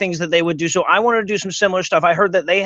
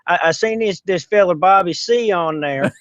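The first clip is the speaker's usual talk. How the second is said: put-on hick voice. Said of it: "so I figure I'd talk like this".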